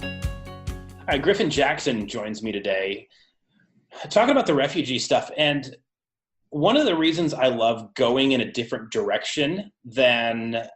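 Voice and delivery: tinny audio through laptop speakers; lo-fi recording over a laptop. Real, not acted. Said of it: "this was recorded through the laptop speakers".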